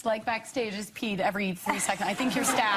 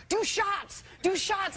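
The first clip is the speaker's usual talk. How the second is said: high, urgent mock chant; retold egging-on; 11 semitones higher, much slower than usual. Brothers urging sister before red carpet, high egging-on. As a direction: push them on in a high, punchy voice.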